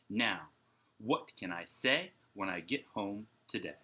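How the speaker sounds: lively rhymed storybook reading; picture-book read-aloud voice; reading to children. A narrator's reading. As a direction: read the rhymes for young listeners. Teacher reads Dr. Seuss aloud.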